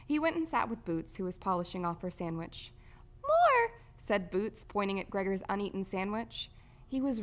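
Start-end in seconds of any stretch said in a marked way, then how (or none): 3.2-3.8 put-on high, loud little-kid voice; squeaky small child asking; demanding toddler. A narrator's reading. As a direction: pipe up like a hungry tot. Toddler Boots demands more food.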